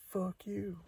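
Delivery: put-on a high whispered fuck you from the kid; kid's whispered comeback. Kid whispering the curse back at the angry man. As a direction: hiss it back, mock-tough. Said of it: "And he's like".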